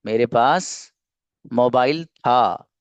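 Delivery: "मेरे पास", a pause, then slow "mobile था"; slow, chunked repeat. Shown as a demonstration. Teacher repeats the example for learners, slow and chunked. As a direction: break it after "पास" and stretch out "mobile था".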